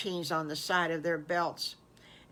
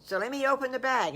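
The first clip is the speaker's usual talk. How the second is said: raised, louder storybook wolf voice; hesitant but game wolf; 4 semitones higher, 5 dB louder than usual. Acted. Wolf agrees to open his present, game. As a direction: go along with it, pitched up.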